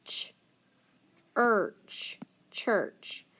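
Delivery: ch-, urch, church in a whisper; teacher whispering while sounding out. Shown as a demonstration. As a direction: whisper the sounds, then blend them. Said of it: "We have".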